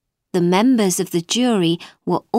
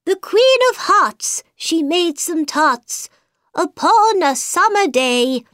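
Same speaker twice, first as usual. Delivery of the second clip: White Rabbit reciting; 10 semitones higher, 4 dB louder than usual. A narrator's reading. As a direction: proclaim it like a herald.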